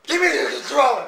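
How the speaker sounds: mocking shout. Drowning out friend asking for controller.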